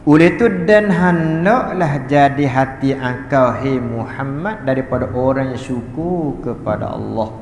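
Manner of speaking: slow, drawn-out reading of a religious text; reading from a kitab. Acted. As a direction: read the translation out slowly, phrase by phrase. (membaca kitab perlahan-lahan)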